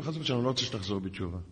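soft, quick dismissal; understated rapid rebuff; retold cool refusal. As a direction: refuse quietly and briskly, acting it out. Repeats his quiet refusal.

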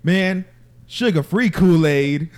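high, loud, slow mock cult voice; mock cult member. Friends joking about a diet cult, goofy high loud voice. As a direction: drag out the Kool-Aid line in a goofy high voice.

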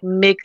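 "mix" with a short i, as in "Mixican". Shown as a demonstration. Co-host showing how the host's Mexican sounds, short i in "mix". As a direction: put a short i where the e of Mex would be, "mix". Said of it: "It sounds like an I".

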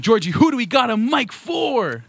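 high-pitched rousing call-out; hype host. Pretend. Host asking co-host for the next guest, hype host.

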